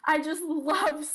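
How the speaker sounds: real giggles through the words; giggling. Real, not acted. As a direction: laugh helplessly at yourself. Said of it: "I don't even understand why I'm like this".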